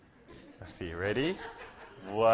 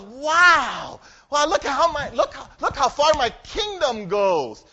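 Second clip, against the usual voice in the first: excited wow; 4 semitones higher, 3 dB louder, slower than usual. Acted. Yertle marvels at kingdom.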